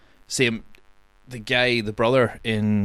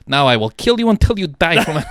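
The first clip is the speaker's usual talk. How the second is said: laughing through the villain line, louder; laughing quote; 6 semitones higher, 4 dB louder than usual. Retold or imitated. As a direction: crack up while quoting it. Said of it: "and he's like".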